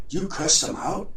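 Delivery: high, rising disbelief; surprised. A narrator's reading. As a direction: gasp it out as a shocked question. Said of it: "in surprise".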